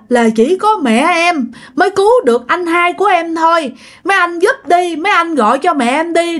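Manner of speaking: high, sustained mock-crying wail; acted weepy plea, repeated in a high whine; imitated tearful pleading. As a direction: beg for mother like someone crying, pitched well up. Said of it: "Mà vừa khóc vừa nói vậy".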